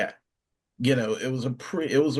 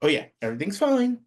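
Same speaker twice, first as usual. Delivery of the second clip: sarcastic; 8 semitones higher, faster than usual. Acted. Mocking the lack of refs.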